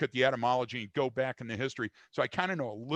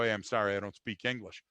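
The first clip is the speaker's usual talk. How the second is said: lower, feigning not to speak English; fake foreign voice; 4 semitones lower than usual. To a chatty airplane seatmate, put-on foreign voice. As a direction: play dumb in a put-on foreign voice. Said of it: "I look at 'em, I go".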